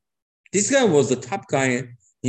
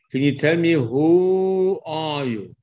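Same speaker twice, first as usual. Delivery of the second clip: curious king; 2 semitones higher, slower than usual. Acted. King pressing Esther for her identity.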